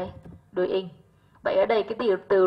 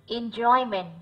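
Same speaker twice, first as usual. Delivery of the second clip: Enjoyment stressed on "joy"; second-syllable stress; 2 semitones higher, slower than usual. Shown as a demonstration. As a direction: lean on the middle syllable of Enjoyment. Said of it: "âm hai". (nhấn âm tiết hai của Enjoyment)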